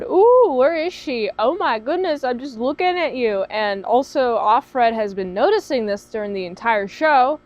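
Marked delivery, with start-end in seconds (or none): 0.0-3.4 mock smitten Nick. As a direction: play a lovestruck guy searching for her. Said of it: "Looking around".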